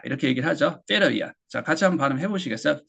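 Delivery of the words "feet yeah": "feet, yeah" linked as "feeda ya"; casual "ya". Shown as a demonstration. Teacher modelling casual speech, "feet, yeah" said "feeda ya". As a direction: run "feet" into a reduced "yeah". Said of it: "casual하게 얘기를 할 때".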